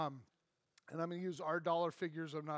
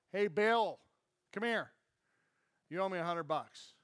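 calling out; 5 dB louder than usual. Acted. Servant calls out to debtor.

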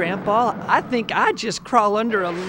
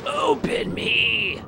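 muffled voice from sack; 3 semitones higher, slower than usual. Acted. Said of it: "The voice came from inside the sack".

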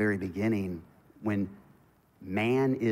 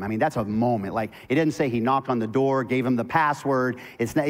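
lively storytelling; 4 semitones higher, 7 dB louder than usual. Acted. Playful sermon storytelling, laughing.

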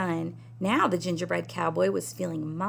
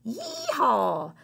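whoop; 5 semitones higher than usual. Acted. Javelinas whoop.

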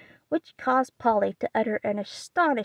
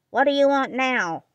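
put-on sharp, louder old-aunt demand; 4 semitones higher, 5 dB louder than usual. Aunt March to the girls, a sharp demand. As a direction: snap it at the unwelcome visitors. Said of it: "looking sharply over her spectacles".

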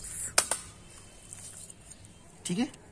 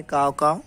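crow caw; slower than usual. Retold or imitated. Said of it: "क्या चिल्ला रहा है?".

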